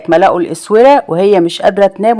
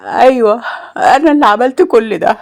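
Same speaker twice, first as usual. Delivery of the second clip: calm but higher-pitched admission; calm confession; 4 semitones higher than usual. A narrator's reading. Roaya confessing all to the officer, outwardly calm. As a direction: admit it with strained calm. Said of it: "وقالت له بكل هدوء".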